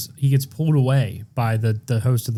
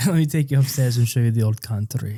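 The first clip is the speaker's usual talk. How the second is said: put-on old Hungarian man. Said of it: "an old Hungarian man".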